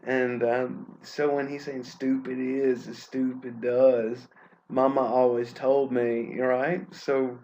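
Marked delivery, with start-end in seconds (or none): 1.8-6.4 put-on Southern Gump accent. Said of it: "how, uh, Southern people speak".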